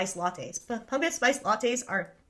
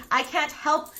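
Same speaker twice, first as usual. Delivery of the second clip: drawn out through giggles; slow, giggly mock confession; laughing helplessly; 4 dB louder, slower than usual. Real, not acted. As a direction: say it while cracking up at yourself. Amused at her own boasting.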